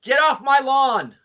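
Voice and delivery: put-on slow grumpy old man; cranky old codger yelling; old prospector.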